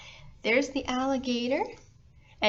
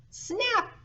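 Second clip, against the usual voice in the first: big snap; 13 semitones higher than usual. A narrator's reading. Alligator bursts out of egg.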